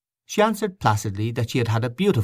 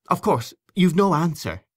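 warm; 8 semitones higher than usual. A narrator's reading. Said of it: "Miss Ivors said warmly".

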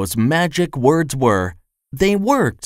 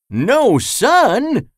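high, startled disbelief; surprised exclamation; 10 semitones higher, 3 dB louder than usual. A narrator's reading. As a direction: gasp it out in amazement. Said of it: "exclaimed the wizard".

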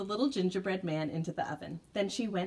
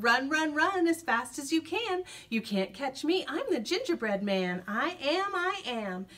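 calling out; 3 semitones higher than usual. Acted. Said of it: "he called out".

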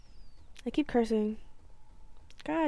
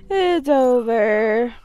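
slow, louder hammed-up despair; dramatic despair; 6 dB louder, much slower than usual. Gamer sure he is losing, slow mock despair. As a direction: drag it out like a tragic ending.

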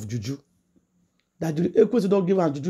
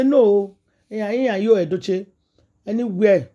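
loud protest; 5 semitones higher, 5 dB louder, slower than usual. Retold or imitated. Son protests defending his girlfriend.

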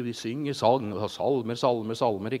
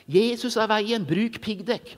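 mock shout; 7 semitones higher, slower than usual. Drunk teenager jeering at the street choir, mock shout. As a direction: yell it like a drunk heckler. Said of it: "han som ropte".

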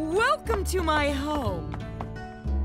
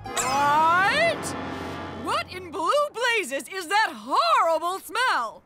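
outraged; slower than usual. Acted. Wife outraged at smell.

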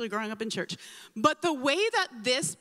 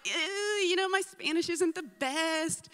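higher, drawn-out, reluctant hedge; retold nerves, slowly hedging; nervous hesitation; 5 semitones higher, slower than usual. Unsure about speaking Spanish at church, mildly nervous hesitation. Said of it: "even though I felt nervous".

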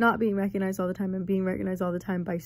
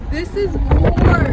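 loud, slow, booming declaration; dramatic war cry; 8 semitones higher, 13 dB louder, much slower than usual. Pretend.

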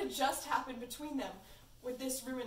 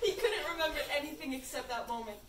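laughing while reading; 3 semitones higher, 4 dB louder, faster than usual. Real, not acted. Reader still laughing.

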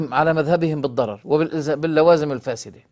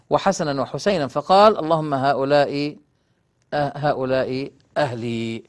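formal hadith reading; 3 dB louder than usual. A narrator's reading. Lecturer reading a hadith to his listeners, formal recitation. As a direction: read the sacred text out deliberately.

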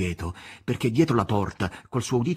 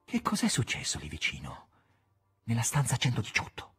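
softer, gentle coaxing question; 2 semitones higher, 4 dB quieter than usual. Acted. Ivan coaxes the nurse about room 118, gently coaxing. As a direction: coax the secret out of her. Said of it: "pregò Ivan con voce carezzevole".

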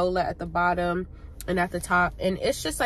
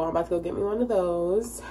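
stuffy, congested from sneezing; blocked nose, congested. Real, not acted. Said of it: "that's why I sound so congested".

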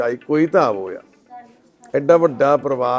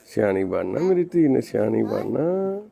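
tender comforting; 3 semitones lower, 7 dB quieter than usual. Real, not acted. Comforting the little daughter.

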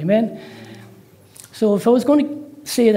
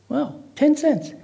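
slow, high-pitched astonishment; amazed; 8 semitones higher, slower than usual. Acted. Caller reacts to the president's cheap price, astonished. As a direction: draw it out in amazed disbelief.

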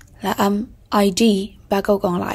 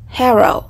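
"Hero" with the first syllable stressed; teacher's careful model of "Hero", front-stressed; 2 semitones higher, 4 dB louder than usual. Shown as a demonstration. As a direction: lean on HE in "Hero". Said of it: "âm thứ nhất".

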